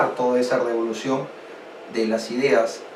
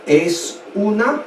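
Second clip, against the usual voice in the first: dramatic servant; much slower than usual. Acted. Servant gravely tells the king: slow, weighty reveal. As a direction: draw out es una revolución with gravity. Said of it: "su súbdito le dice".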